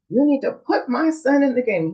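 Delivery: half-voiced shout at the coach; retold scream. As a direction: imitate an irate dad yelling, without really shouting. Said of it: "he started screaming for the coach".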